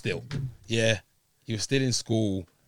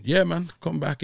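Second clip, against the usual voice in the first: put-on Scouse accent; 5 semitones higher than usual. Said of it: "in his, in his Scouse accent".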